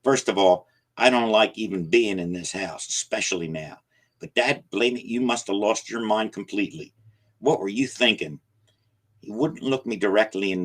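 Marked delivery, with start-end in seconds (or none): 0.0-8.4 louder, agitated scolding; old man furious at him; angry rant. Acted. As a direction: scold without a pause. Jacob's angry rant continues.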